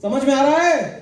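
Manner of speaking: slow and deliberate, no laugh; slow, firm check-in. Real, not acted. Boss repeats the question to his team, slowly and firmly. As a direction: press each word of समझ में आ रहा है. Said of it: "asks team twice".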